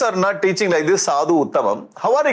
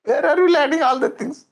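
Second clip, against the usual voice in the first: higher, sharp scolding of his son; angry father demon; 10 semitones higher than usual. Acted. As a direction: scold the boy like an outraged demon king. Storyteller acts angry Hiranyakashipu.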